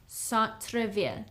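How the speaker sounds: Centre-ville, gently echoed; quiet teaching echo. Shown as a demonstration. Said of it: "How would you say downtown?".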